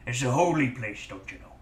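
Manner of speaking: put-on gruff pirate accent. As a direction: talk like a salty pirate. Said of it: "This is slowly becoming a pirate voice".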